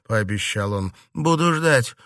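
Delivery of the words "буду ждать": defiant retort. A narrator's reading. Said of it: "бросила в ответ Катерина".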